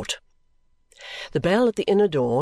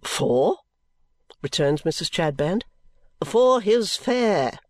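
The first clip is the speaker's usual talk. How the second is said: a hint of a stern severe wife; clipped and severe; lightly voiced stern matron; stern woman; 4 semitones higher, slower than usual. Mrs Chadband speaks.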